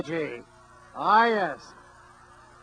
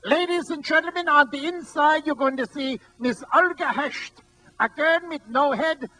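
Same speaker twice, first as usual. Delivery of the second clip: put-on old carnival barker; 5 semitones higher than usual. Imitating the old showman calling the crowd in, barker voice. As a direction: bark it like an old-time carnival talker. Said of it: "This is the way he sounded".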